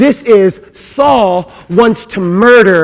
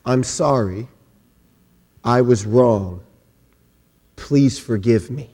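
softer, lower, slow and humble; quiet sincere apology; 11 semitones lower, 9 dB quieter, slower than usual. Shown as a demonstration. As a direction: say it softly, like you truly mean it. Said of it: "And do this".

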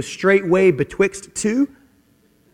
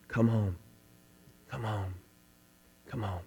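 soft, low, fading invitation; tender pleading; 7 semitones lower, 16 dB quieter than usual. Retold or imitated. God calling a wanderer back, tender hushed pleading. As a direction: call gently, quieter each time.

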